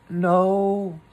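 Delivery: high, loud disguised voice; different sort of voice. Acted. Rabbit faking a different voice to Pooh. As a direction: disguise your voice to fool the caller. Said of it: "in a different sort of voice this time".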